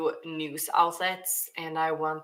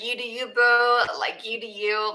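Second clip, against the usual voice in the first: put-on higher-pitched bubbly Valley girl; 5 semitones higher than usual. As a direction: play up a sassy LA Valley girl. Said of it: "I'll talk like a valley girl".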